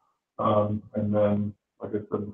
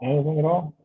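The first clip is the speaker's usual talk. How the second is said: tin can; 5 semitones higher than usual. Real, not acted. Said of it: "It sounds like you're in a tin".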